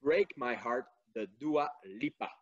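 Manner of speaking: English title in a convincing English accent; strong English accent. Real, not acted. Quiz host reading song choices to listeners, strong English accent. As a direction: say the names with good English pronunciation. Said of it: "qui a un fort accent anglais qui est très bon".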